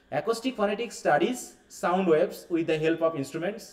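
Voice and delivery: each word spaced out for notes; slow dictation. Shown as a demonstration. Teacher to class, slow dictation pace. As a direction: read it slowly so they can write. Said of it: "dictating definition".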